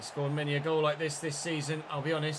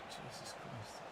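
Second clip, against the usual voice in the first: exasperated groan; 4 semitones lower, 16 dB quieter, slower than usual. Real, not acted. Goal conceded, exasperated.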